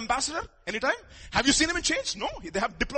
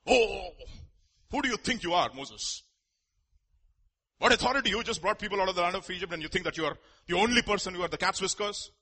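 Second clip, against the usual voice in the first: mocking challenge to Moses; 3 semitones lower than usual. Voicing rebels challenging Moses.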